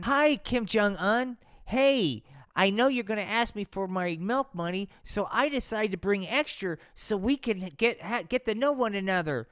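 put-on bright gee-whiz boy voice; sweet eager kid greeting; eager wholesome kid. Donnie greeting bully.

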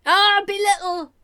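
delighted, high and loud; excited. Real, not acted. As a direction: savour the word belittle. Delighted by the word.

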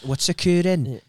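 drawn-out mock Welsh; attempted Welsh accent. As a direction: stretch out a Welsh lilt. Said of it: "Welsh is hard".

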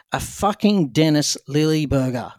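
slow, fed-up mock anger on "fucking Dennis Lilly burger"; angry customer. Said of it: "just looked so angry and he goes".

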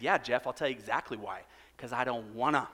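low-pitched mock lead-pastor firmness; stern, serious. Pastor refusing his elder by phone, mock stern. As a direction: lean in with mock authority, voice kept low. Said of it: "stern and serious and very lead pastor-like".

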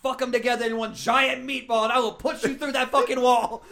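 hammed-up Italian-American father threatening; mock threat. Father threatens wedding guests, hammed-up mock menace. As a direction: threaten them, on the edge of laughing.

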